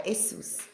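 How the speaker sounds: Jesus said as "Esus", opening on a vowel. Shown as a demonstration. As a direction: drop the J from "Jesus" and start on the vowel. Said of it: "it's not pronounced Jesus".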